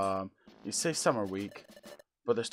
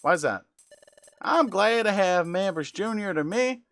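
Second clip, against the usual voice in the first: high, loud, hammed-up Southern drawl; exaggerated Southern accent; 9 semitones higher, 8 dB louder than usual. Bidoof welcoming new recruits, high loud mock Southern accent. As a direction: lay on a caricature Southern accent, overjoyed. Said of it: "extremely racist Southern accent".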